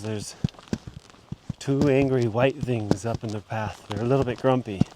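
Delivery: light mock German accent, halting English; imitating German broken English. German hiker warning about grumpy swans, light mock German accent. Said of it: "In his broken English".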